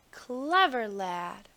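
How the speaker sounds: slow yawning praise; sleepy delight. A narrator's reading. Sleepy king praising Anthony, slow and yawning. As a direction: stretch it out through a yawn. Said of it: "yawed the king in sleepy delight".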